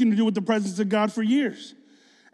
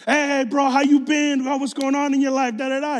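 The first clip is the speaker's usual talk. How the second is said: fake-friendly bro; 5 semitones higher than usual.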